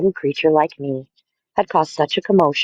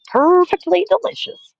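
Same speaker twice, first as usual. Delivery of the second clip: mock old lady. Waiter mimics the old lady.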